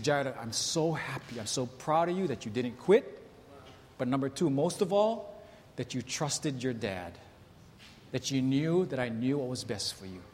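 tender praise. Retold or imitated. Father praising son after game, softly. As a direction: hush it down like a proud dad.

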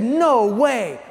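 high, loud, laughing disbelief; officer recognizing the pastor, laughing and shouting; excited recognition. Retold or imitated.

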